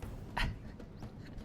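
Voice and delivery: soft, breath-only laugh; short quiet huff of laughter. Real, not acted. Gamer amused as troops rout, soft breathy laugh.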